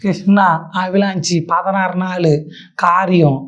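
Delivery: slow, stumbling parody of a fumbling speaker; mocking a leader who can't speak coherently, slowly halting; halting mock speech. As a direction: drag it out like someone who can't string words together. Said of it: "கோர்வையா பேச தெரியாத".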